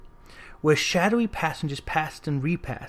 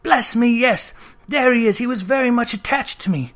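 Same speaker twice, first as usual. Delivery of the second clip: excited; 4 semitones higher than usual. Acted. Scrooge delighted seeing old friend.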